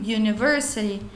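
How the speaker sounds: university said starting with a Y sound; yoo sound. Shown as a demonstration. Teacher shows university starts with a Y sound. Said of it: "o som é como se tivesse um Y".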